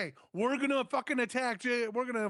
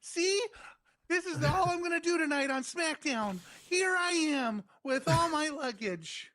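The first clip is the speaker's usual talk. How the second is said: mocking wrestler; 5 semitones higher than usual.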